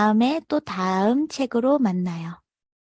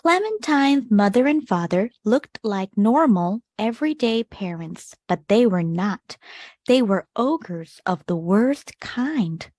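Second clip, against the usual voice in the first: put-on gentle read-aloud for children, measured pace; storybook narration; much slower than usual. A narrator's reading. Teacher reading a picture book to kids, expressive narration. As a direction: tell the tale to a class of young listeners.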